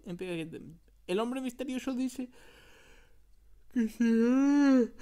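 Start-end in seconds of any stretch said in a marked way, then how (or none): 3.7-4.9 loud, high drawn-out squeal; startled squeal. Pretend. Gamer startled reading the mystery message, squealing. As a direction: let out a long mock-scared shriek.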